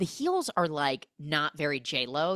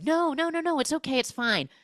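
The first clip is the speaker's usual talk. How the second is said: much higher flustered no no no; flustered reassurance; 12 semitones higher than usual. Retold or imitated. J Lo brushing off his comment, high and flustered. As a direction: hurry to wave it off, flustered. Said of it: "she's like".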